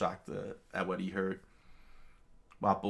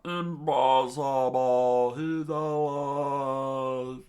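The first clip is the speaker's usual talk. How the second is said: slow, louder disbelieving cry; stunned shout; 6 semitones higher, 6 dB louder, much slower than usual. Acted. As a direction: drag it out in disbelief. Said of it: "Chess Matapo screamed out".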